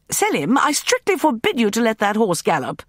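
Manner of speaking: high, loud call; calling after. A narrator's reading. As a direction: call after them as they leave. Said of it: "I called after them".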